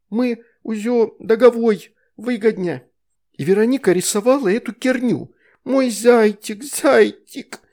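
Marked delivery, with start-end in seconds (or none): 0.1-2.8 put-on high, slow lisping baby talk; lisping toddler. A narrator's reading. Veronika explaining the deal, high lisping baby talk. 5.6-7.6 high, slow, loud wail; childish wail. A narrator's reading. Veronika crying for her chocolate bunny, high and wailing.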